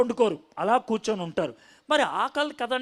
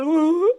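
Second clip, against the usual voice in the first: sentimental moan; 6 semitones higher, 6 dB louder than usual. Retold or imitated. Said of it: "మరియ బాగా sentimental".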